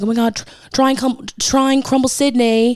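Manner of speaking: put-on a botched Australian accent that slides toward British; failed Australian accent. Sounding British while faking Australian to a friend. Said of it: "That was British".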